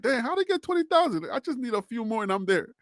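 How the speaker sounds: mock whining. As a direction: complain like a playful crybaby. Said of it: "stop crying, Harry B".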